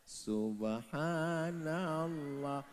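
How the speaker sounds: slow, soft murmured praise; soft dhikr. Acted. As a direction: breathe it out quietly. (zikir pelan dan lembut)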